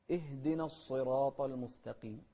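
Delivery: careful, measured verse reading; Quran recitation. Shown as a demonstration. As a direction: recite clearly and deliberately. (تلاوة مرتلة واضحة)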